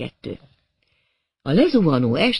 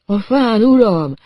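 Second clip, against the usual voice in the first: raised, louder urgent call; 6 semitones higher, 5 dB louder, slower than usual. A narrator's reading. Edward alerting his master to the tree, calling out. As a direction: call it out to the boss. Edward calls out, pointing upward.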